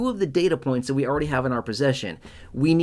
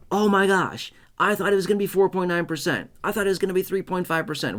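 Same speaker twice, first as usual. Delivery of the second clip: higher and fast, imitating a let-down viewer; mock shocked dismay; 5 semitones higher than usual. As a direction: play the stunned viewer whose hopes just crashed. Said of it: "totally shocked and be like".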